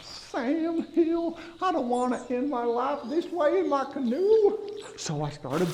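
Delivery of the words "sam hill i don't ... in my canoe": higher, urgent panic in the canoe; higher-pitched alarm, wanting to get away; panicked exclaim. Retold or imitated. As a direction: blurt it out in a fright. Panicked cry fleeing gator.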